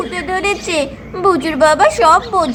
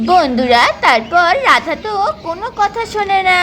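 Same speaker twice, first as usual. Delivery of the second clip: story narration. A narrator's reading. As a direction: narrate calmly to the viewers. Narrator addresses viewers.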